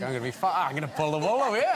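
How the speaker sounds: put-on cocky have-a-go Cockney accent. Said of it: "my Cockney accent's a bit off".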